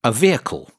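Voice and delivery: "vehicle" said as two syllables, VEE-kul, h silent; model pronunciation. Shown as a demonstration. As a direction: clear teaching model of "vehicle". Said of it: "This lesson is about a moving machine".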